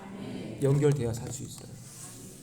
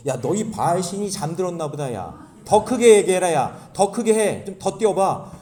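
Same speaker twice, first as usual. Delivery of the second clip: taunting Elijah; 3 semitones higher, 5 dB louder than usual. Acted. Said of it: "엘리야가 그거를 보고".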